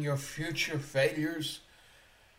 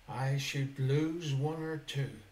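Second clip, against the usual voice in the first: deliberate misquote; slower than usual. Shown as a demonstration. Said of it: "Uh-uh. No, no, no".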